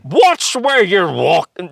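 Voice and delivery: high, very slow, clumsy mock British accent; a badly faked British accent, drawn out; failed British accent. Told to try the line, he mangles a British accent. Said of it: "Try that one".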